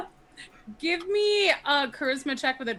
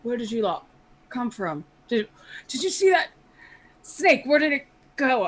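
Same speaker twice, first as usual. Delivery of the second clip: startled guard voice; 4 dB louder than usual. Acted. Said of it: "They say".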